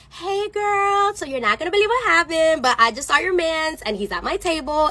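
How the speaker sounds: put-on high, drawn-out girly greeting; fake-casual. Server telling her friend about the boyfriend, fake-casual. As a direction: break awkward news in a high sing-song.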